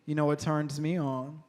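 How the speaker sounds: lightly voiced, slow come-on; a hint of sultry flirting, played for laughs.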